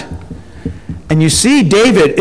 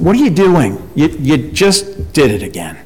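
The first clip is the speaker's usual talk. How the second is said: friend's rebuke. Retold or imitated. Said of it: "I said".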